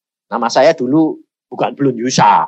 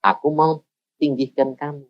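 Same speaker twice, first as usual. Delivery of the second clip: voice of God; 6 dB quieter than usual. Retold or imitated. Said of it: "Tuhan ngomong lagi".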